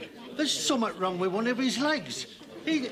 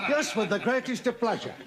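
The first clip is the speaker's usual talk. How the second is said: chuckling through the words; laughing. Acted. Farmer to vet, agreeing gladly while laughing. Delighted to show again.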